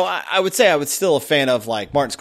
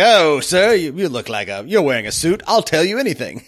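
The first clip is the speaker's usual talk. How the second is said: fawning clerk; 3 semitones higher than usual. Retold or imitated. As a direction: gush like an eager bellhop.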